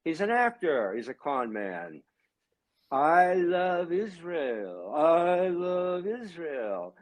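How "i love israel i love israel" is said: very slow, drawn-out mock sincerity; mocking Trump. Mocking a politician's speech to his audience, very slow hammed-up sincerity. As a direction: drag each word out like a hammed-up politician. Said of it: "with that fake accent of his".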